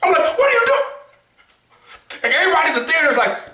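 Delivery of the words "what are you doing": slow, very high disbelieving cry; incredulous outburst. Retold or imitated. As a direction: shout your disbelief at the screen. Shouting at character in theater.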